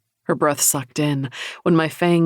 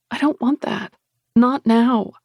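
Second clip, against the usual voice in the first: high, insistent no; firm refusal; 7 semitones higher, 4 dB louder than usual. Acted. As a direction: refuse with raised voice. Heroine refuses firmly.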